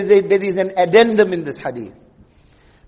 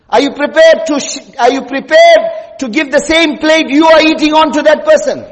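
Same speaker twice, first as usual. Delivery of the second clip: raised preaching voice; 4 semitones higher than usual. Real, not acted. Preacher confronting his congregation about servants, raised voice. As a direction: hammer the question home to the listeners.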